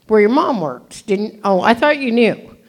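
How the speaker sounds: lightly voiced aunt blurting the secret; imitating the aunt. Retelling what her aunt said, in a rising aunt voice. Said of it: "And she says".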